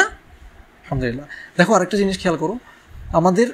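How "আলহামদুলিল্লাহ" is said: mumbled rote phrase. Shown as a demonstration. Mocking rote dhikr habit.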